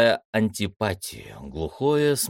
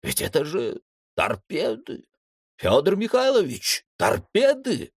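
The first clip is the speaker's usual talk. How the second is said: high alarmed cry, rising higher; frightened cry; 8 semitones higher than usual. A narrator's reading. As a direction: blurt it out in rising panic. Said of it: "громко вскрикнул".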